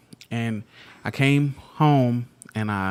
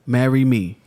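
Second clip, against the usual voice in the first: mock proposal; 6 dB louder than usual. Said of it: "I was like".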